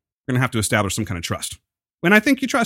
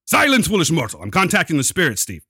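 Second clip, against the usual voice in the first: theatrical medium voice, lightly hammed; commanding mystic, half joking; seance medium; 5 semitones higher than usual. Hammed medium silencing friend.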